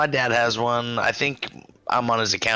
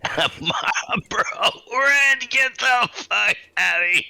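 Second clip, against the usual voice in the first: incredulous whisper; 12 semitones higher than usual. Pretend.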